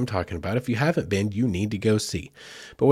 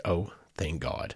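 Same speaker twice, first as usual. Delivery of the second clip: relieved sigh; 4 semitones lower, 9 dB quieter, slower than usual. Retold or imitated. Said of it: "huge sigh of relief inside".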